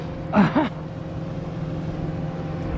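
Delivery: high breathy laugh of delight; excited laugh. Real, not acted. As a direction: laugh out with joy. Catching a fish, big laugh.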